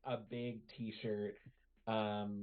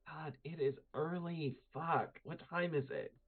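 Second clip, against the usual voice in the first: groggy annoyed; 5 semitones higher than usual. Acted. Woken too early.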